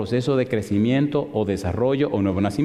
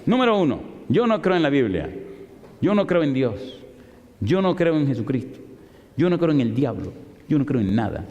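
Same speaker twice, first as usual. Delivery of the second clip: defiant list. Retold or imitated. The atheist professor listing her unbeliefs, defiant. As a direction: lay down her disbeliefs one by one. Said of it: "se montó otra vez".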